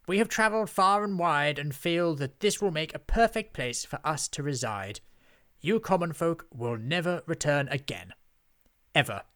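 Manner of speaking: high, loud grandiose witch speech; haughty witch. A narrator's reading. Witch explains her takeover to simpletons, haughty declaiming. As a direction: lecture the commoners from on high.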